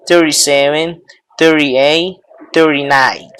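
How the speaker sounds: thirty-seven, thirty-eight with the t softened to an r-like tap; flapped t thirties. Shown as a demonstration. Teacher repeats the thirties with the alternative pronunciation. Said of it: "O pueden pronunciarlo".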